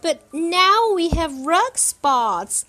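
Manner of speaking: loud, high alarmed yell; yelling child. A narrator's reading. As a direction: shout it out in a panic. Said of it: "I yelled".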